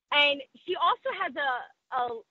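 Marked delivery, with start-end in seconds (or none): none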